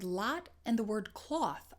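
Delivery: "lot" open and unrounded, "cloth" with an aw; two distinct vowels. Shown as a demonstration. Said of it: "are two different sounds".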